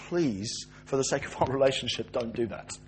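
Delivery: soft, low appeal; gentle plea. Acted. God asking man to spare their relationship, gently pleading.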